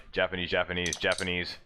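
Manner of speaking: low, subdued mimicry of commentary; Japanese commentator impression. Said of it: "You hear, like".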